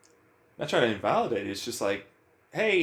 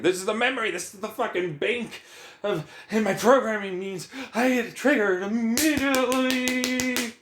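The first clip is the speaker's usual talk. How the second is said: mock robotic brain; 10 semitones higher than usual. Acting out the brain's programming.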